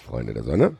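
ordinary delivery, nothing marked

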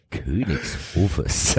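drawn-out mocking Königshofes; very slow, low and mocking. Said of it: "schon vier oder fünf Mal gehört".

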